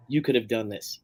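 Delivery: low, hushed near-whisper; retold whisper. Wife confiding praise in her husband's ear at a concert, hushed. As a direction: say it softly, as if into someone's ear. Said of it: "she just whispers in my ear".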